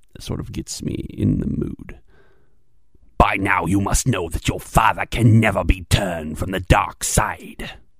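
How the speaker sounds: scheming emperor villain voice. Auditioning for a role long wanted, the speaker delivers a line in an Emperor Palpatine voice. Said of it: "That would be that of Emperor Palpatine".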